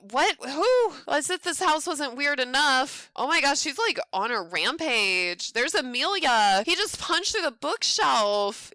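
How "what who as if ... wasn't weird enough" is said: startled sister. Acted.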